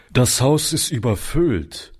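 caretaker voice, flat refusal; blunt doorkeeper turning them away; curt porter. Acted. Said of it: "entgegnete der Hausmeister".

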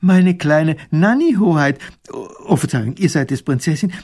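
delighted, high-pitched recognition; much friendlier soldier. A narrator's reading. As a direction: greet a princess you knew as a child. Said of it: "ganz anders und viel freundlicher".

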